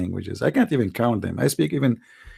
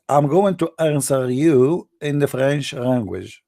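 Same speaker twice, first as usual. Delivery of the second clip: hammed-up fake French accent, slow; mock French; slower than usual. Comedian answering a viewer in mock French accent. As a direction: lay on a put-on French accent. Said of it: "This is a French now".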